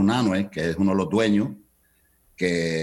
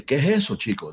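put-on Cuban accent; 7 semitones higher than usual. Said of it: "con el acento cubano".

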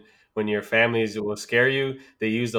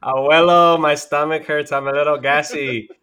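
put-on complaining kid; 3 semitones higher, 4 dB louder than usual.

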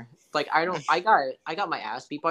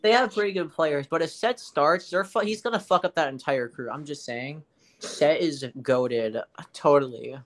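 sarcastic. Acted. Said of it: "I sense sarcasm".

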